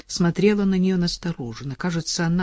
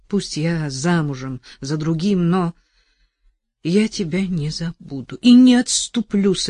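passionate vow. Acted. Vow to jailed lover.

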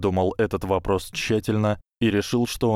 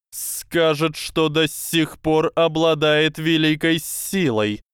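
high, slow lecturing snake voice; slow hypnotic serpent hiss; 8 semitones higher, 3 dB louder, slower than usual. Acted. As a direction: coil the words around him slowly. Snake lays out plan.

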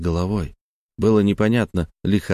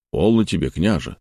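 measured and calm. Acted. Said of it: "снова размеренно произнёс Лазарь".

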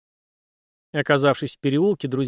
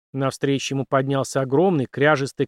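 plain reading voice

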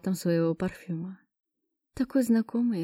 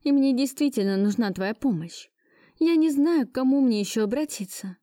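high, anxious plea; pleading; 5 semitones higher than usual. Acted. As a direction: beg him, voice rising. Heroine begs ex for help.

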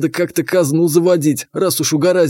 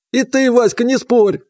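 put-on higher, sudden call from an old man; old grandfather; 8 semitones higher than usual. A narrator's reading. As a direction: stop them short like a grandpa. Grandfather orders.

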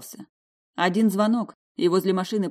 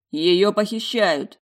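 alarmed; 4 semitones higher, 6 dB louder, much slower than usual. A narrator's reading. Felix alarmed at kidnapping.

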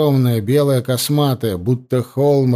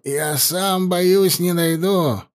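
out of breath; 6 semitones higher, slower than usual. Acted. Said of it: "задыхаясь, прохрипел он".

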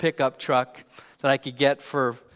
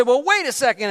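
a quick, higher, louder objection; mildly mad; 7 semitones higher, 4 dB louder than usual. Retold or imitated. Wife interrupting the phone call, mildly mad. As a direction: Lisa cutting in, half-annoyed. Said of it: "Lisa's getting mad".

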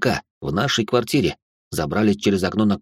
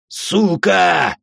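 loud shouted swear, higher; shouted curse; 8 semitones higher, 3 dB louder than usual. A narrator's reading. A killer curses as the father wakes: shout. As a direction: bark it out. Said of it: "выкрикнул какой-то убийца".

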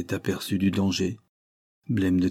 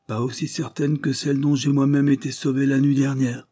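smiling; 6 semitones higher, 3 dB louder than usual. A narrator's reading. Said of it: "dit monsieur Lidney en souriant".

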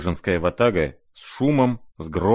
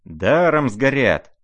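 loud, higher, slow roar; 6 semitones higher, 6 dB louder, slower than usual. Acted. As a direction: bellow it out in dismay. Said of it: "ревели со всех сторон".

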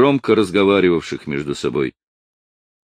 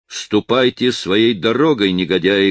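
stern threat. Acted. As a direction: stand up to them, each word firm. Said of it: "грозно произнёс он".

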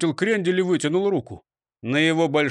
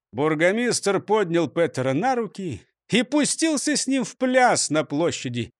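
ordinary delivery

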